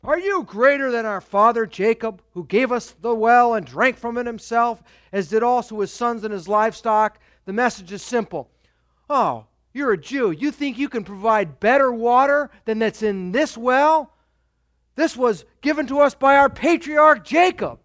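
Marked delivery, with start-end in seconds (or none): 0.0-7.2 proud challenge, read out with mild emphasis. Acted. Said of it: "you can see the pride here". 9.1-17.8 mildly indignant pride, building higher and louder; proud. Acted. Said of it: "you can see the pride here".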